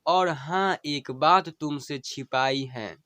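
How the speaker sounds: slow, tender recital of a dying wife's plea; dying wife's farewell. Acted. Wife bidding her husband farewell, tender and pleading.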